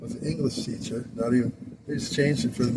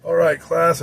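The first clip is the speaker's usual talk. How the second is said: louder, higher call to the class; teacher calling the class; 5 semitones higher, 8 dB louder, slower than usual. Retold or imitated. The speaker imitating Mister Hand calling his class to order, louder. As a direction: bark it like chopping the air. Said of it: "doing like a karate chops he talked".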